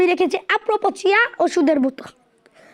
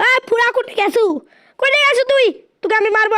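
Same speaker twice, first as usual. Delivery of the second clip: calling out; 4 semitones higher than usual. Real, not acted. Taunting grandpa while hunting him.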